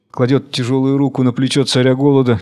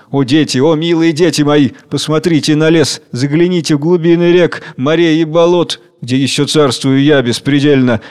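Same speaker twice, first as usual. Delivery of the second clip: lilting, affectionate declamation; tender, caressing. Acted. King woos his children with nature, tender. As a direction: coax them lovingly, savouring the images. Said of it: "Говорит нежно, ласкающим голосом".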